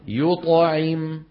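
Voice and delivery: very slow يطعم, the ط kept pure, untouched by the vowels around it; slowed يطعم with an unrounded ط; clean qalqala demo. Shown as a demonstration. Teacher modelling correct ط to the class. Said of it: "فلما بدي أقول يطعم".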